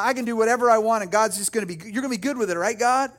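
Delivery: mock careless, breezy and quick at first; flippant. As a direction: toss it off as if it hardly matters. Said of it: "this flippant attitude that says".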